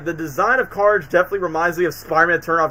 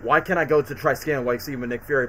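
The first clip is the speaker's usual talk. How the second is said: low, soft, brooding sarcasm; a hint of a gloomy hero; serious dramatic Spider-Man; 4 semitones lower, 3 dB quieter than usual. Spider-Man grumbling, low and soft. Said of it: "When he gets serious and dramatic".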